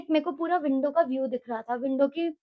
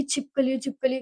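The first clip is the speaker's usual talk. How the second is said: subdued, slightly softer mock whimper; retold near tears; 5 dB quieter than usual. First hostel night, tearful about a lizard, subdued retelling. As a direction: repeat it weakly, imitating being about to cry. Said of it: "मेरे को रोना आ रहा था कि".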